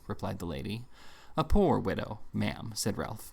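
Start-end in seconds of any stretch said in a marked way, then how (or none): 1.4-2.7 poor weighted with scorn; stress on poor. A narrator's reading. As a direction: lean heavily on poor. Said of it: "a powerful emphasis on that little adjective".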